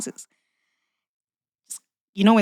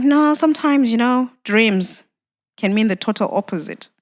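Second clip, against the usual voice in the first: raised, pleading retelling; higher voice, half pleading with him; pleading quote; 4 semitones higher, 4 dB louder than usual. Retold or imitated. Wife pleading with husband about dreams, raised pitch. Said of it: "And then I'm like".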